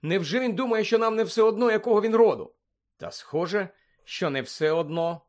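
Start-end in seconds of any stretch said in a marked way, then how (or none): 0.0-2.5 high, increasingly loud rhetorical question; raised pitch, incredulous; indignant disbelief. Acted. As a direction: protest in hurt astonishment. Hermione protests in dismay at avoidance.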